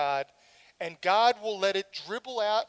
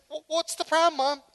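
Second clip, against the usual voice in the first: put-on child's reply; 8 semitones higher, 5 dB louder than usual. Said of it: "why are you so upset".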